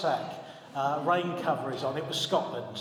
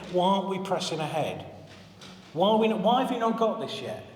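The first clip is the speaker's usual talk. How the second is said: impatient; 3 semitones higher than usual. Retold or imitated. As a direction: pile up the questions, losing patience. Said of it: "we get quite impatient with each other".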